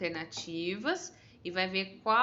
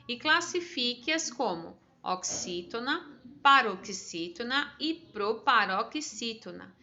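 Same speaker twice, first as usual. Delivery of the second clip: slow, careful reading of an exercise instruction; slow dictation-style reading; reading the task aloud. Shown as a demonstration. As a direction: read the worksheet line slowly and clearly for pupils. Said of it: "na décima quinta diz assim".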